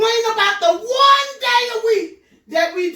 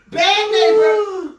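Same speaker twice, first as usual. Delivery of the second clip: slow, louder "Bad neighbor", stress on neighbor; emphatic scold; 2 semitones higher, 5 dB louder, much slower than usual. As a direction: punch it out as a verdict. Repeated label, louder.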